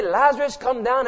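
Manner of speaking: mock summons. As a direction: toss back the wrong call in mock disbelief. Repeats the misquoted call mockingly.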